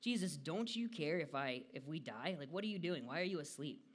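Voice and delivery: lightly acted alarm, pressing for an answer; frantic. Panicked disciple to sleeping Jesus, mock frantic. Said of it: "Frantically, he's like".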